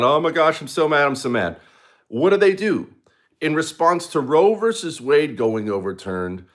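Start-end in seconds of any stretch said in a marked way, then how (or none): 0.0-1.6 higher, petulant mock tantrum; mock whining. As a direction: imitate a sulking crybaby. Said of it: "They're freaking out".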